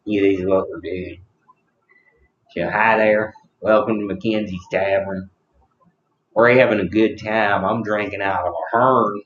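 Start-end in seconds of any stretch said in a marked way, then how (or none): 2.5-9.2 a hint of a country accent; lightly put-on country accent. Host welcoming guests to a tavern, country accent. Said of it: "like, a country accent".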